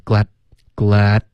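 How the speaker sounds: "glad" ending with no released d; tongue-tip stop. Shown as a demonstration. Teacher drilling the silent d, abrupt ending. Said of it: "咬舌尖".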